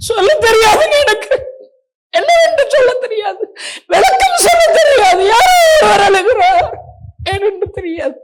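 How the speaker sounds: high, loud tearful pleading; crying. Retold or imitated. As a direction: break down, voice cracking in tears. Retelling his tearful answer.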